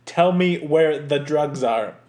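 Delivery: slow, measured, oddly clipped menace; a slow, deliberate Malkovich; Malkovich impression. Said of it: "was it Malkovich?".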